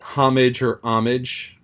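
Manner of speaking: "homage" with an h, then "homage" without it; h sounded then dropped. Shown as a demonstration. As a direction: say "homage" both ways, h then no h. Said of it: "the H can be pronounced or can be silent".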